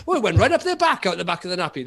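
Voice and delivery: high, fussy parent voice quoting a nappy mishap; mimicking parents. Teller mimics parents describing a nappy, high and fussy. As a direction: squeak it out like a flustered new parent. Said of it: "but I've heard people say".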